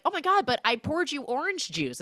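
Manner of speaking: high-pitched, precious plea; mock grand offering. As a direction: offer it like a priceless gift, mockingly. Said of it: "as if he's giving her a diamond".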